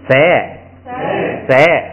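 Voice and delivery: 塞 said clearly and slowly, syllable alone; teacher models 塞 for the class; model reading 塞. Shown as a demonstration. Teacher reading the changed sound to students, careful model. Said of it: "后边这个撒撒也是".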